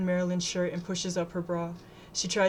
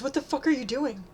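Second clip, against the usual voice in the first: higher-pitched, indignant demand; upset, pitched-up challenge; alarmed protest; 6 semitones higher than usual. A narrator's reading. Girl fighting off attacker.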